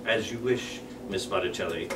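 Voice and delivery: villain threat. Acted.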